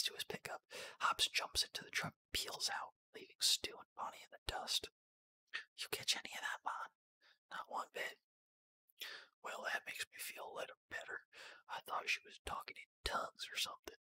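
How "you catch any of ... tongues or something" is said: put-on whispered Southern US accent. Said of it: "I can do a southern accent".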